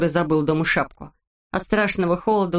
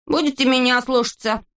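bossy declaration; 6 semitones higher than usual. A narrator's reading. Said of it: "заявил Незнайка".

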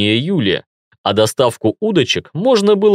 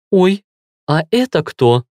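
mildly jealous, higher-pitched question; 5 semitones higher than usual. A narrator's reading. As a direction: ask who that is with a touch of jealousy. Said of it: "спросила она ревнивым тоном".

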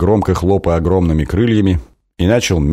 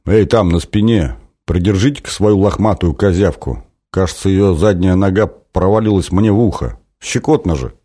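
grumbling dragon. Acted. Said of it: "недовольно пробурчал".

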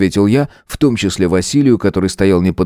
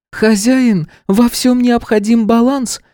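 high, flat, slow creature voice; patient stone companion; golem voice. A narrator's reading. Golem objects. (монотонный голос голема)

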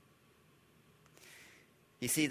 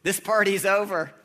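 mock bossy disciples; 5 semitones higher, 7 dB louder than usual. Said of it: "They say".

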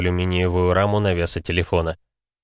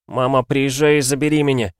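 put-on higher, pleading boy, understated tears; tearful but distinct; 6 semitones higher than usual. A narrator's reading. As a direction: beg mother through held-back tears. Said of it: "Он снова зарыдал, но ему удалось чётко выговорить". (сдержанная слёзная мольба)

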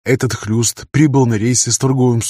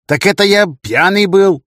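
brash excuse; 9 semitones higher, 5 dB louder than usual. Acted. Тихий defends himself loudly.

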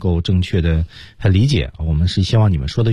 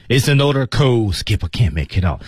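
lightly voiced penguin reporting to his leader; a hint of an in-character status report; Kowalski reporting; 4 semitones higher than usual. Teacher shows who answers Skipper, lightly acted Kowalski report. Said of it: "就是Kowalski说话的".

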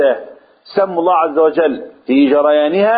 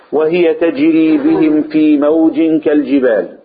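Quran recitation; slower than usual. Shown as a demonstration. Reciting the verse.

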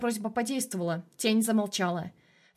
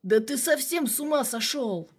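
angry yell; 4 semitones higher than usual. Acted. Colonel keeps yelling.

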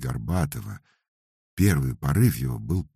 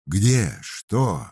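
clamouring; 4 semitones higher, 6 dB louder than usual. A narrator's reading. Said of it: "зашумели в толпе".

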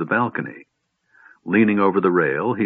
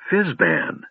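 gasped; 11 semitones higher than usual. A narrator's reading. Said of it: "Tasselhoff was finally able to gasp".

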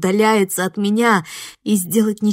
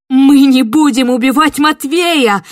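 desperate shout; 5 semitones higher, 9 dB louder than usual. Acted. Героиня кричит в отчаянии.

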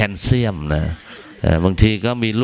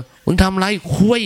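high shouted call from the toilet; mock shout; 12 semitones higher than usual. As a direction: yell it across the bathroom. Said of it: "มันยังตะโกน".

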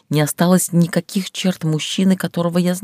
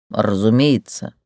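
offended man; 5 semitones lower, slower than usual. Acted. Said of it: "Тергран вроде бы даже искренне оскорбился".

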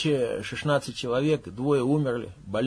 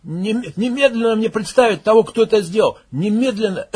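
loud, higher barked command; barked order; 7 semitones higher, 7 dB louder than usual. Acted. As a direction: bark the order, voice breaking. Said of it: "гаркнул, срываясь на кашель".

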